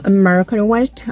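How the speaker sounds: American West said slowly with weight on West; stressed content word. Shown as a demonstration. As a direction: lean on West. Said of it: "중요 내용어의 강조".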